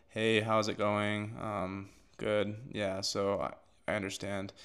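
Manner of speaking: lifeless, zero-energy, flat, low, very slow, depressed. Demonstrating how a sales call sounds when started at zero energy, depressed. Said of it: "you're going to be depressed and sound like terrible".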